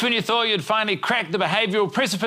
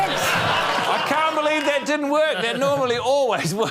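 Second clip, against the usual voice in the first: mock disbelief; 7 semitones higher than usual. Host's mock outrage at wrong spelling.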